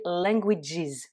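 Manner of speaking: "languages" slowly, ending in iz; English languages. Shown as a demonstration. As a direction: stretch "languages" and close on iz. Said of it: "on est sur le son is".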